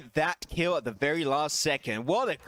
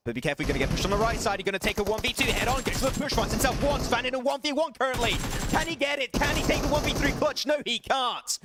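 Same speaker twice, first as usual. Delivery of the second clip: live call building to a shout, much higher, then the letdown; rising excitement; 6 semitones higher than usual. Real, not acted. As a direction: esports caster losing it over a one v three. Clutch moment, live play-by-play.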